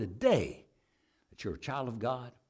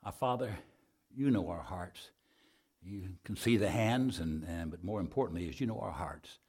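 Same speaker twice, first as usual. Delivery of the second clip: subdued, lowered prayer voice; public prayer; 3 semitones lower, 4 dB quieter than usual. Real, not acted. Preacher praying over those who raised hands, subdued prayer. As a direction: pray aloud for the congregation, softly.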